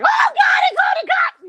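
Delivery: high panicked shout; hammed-up high shout of panic. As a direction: yelp it in sudden alarm. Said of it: "I'm just like".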